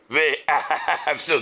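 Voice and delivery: ואהבסו with an s sound and a long held vowel; exaggerated Ashkenazi-style ואהבסו; Litvak pronunciation. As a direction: slowly stretch the middle of ואהבסו like a Litvak. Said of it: "ליטביק אחד הגיע פעם אחת לשטיבלח".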